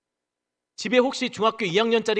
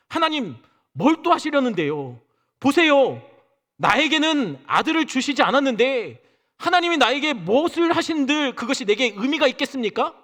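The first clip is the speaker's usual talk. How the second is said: exasperated complaint; 6 semitones higher, 3 dB louder than usual. Retold or imitated. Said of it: "아브라함의 감정을 살려서".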